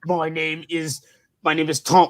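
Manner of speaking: mock British accent, measured; badly put-on British actor voice; Tom Hiddleston. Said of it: "'cause I'm from Britain".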